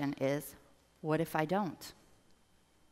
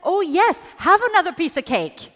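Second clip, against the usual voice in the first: higher, louder coaxing temptation; tempting inner voice; 7 semitones higher, 14 dB louder than usual. Acted. Coach voicing the cake-tempting voice, high and loud. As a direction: egg them on to eat the cake. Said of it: "do you know this voice says".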